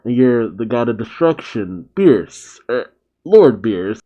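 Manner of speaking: hesitant, mildly sheepish introduction; a touch of awkward deference, with a halting start. Acted. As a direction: introduce yourself meekly, then correct yourself. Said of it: "Chilai sheepishly says".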